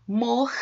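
"Morcego" broken into mor, ce, go; sílaba por sílaba. Shown as a demonstration. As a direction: say "Morcego" with a gap after each syllable. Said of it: "quando eles se separam". ("Morcego" separado em mor, ce, go)

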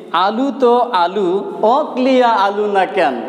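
slow Bogura regional speech; Bogura dialect. Shown as a demonstration. Teacher repeats the Bogura example for the class, slow Bogura accent. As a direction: say it the Bogura way, unhurried. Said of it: "Bogura বা জয়পুরহাট জেলার আঞ্চলিক ভাষায় যদি বলি".

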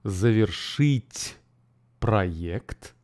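Завершить проект said slowly for repeating; slow model phrase. Shown as a demonstration. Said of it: "repeat every part by part".

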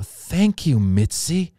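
high burst of gratitude, easing on the name; thrilled thanks. Retold or imitated. Comedian just made a regular, thrilled thanks. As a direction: gush it, overjoyed. Thrilled reply to big offer.

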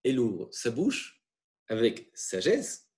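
the verse read again, slow and weighed word by word; slow it right down so the class can follow "sagesse"; slow rereading. Shown as a demonstration. Teacher rereads the verse for the class, slowly. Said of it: "On reprend le texte".

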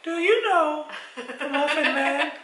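slow, high put-on voice; teasing quotation. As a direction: draw out the question theatrically. Quoting Muffin Man bit at her.

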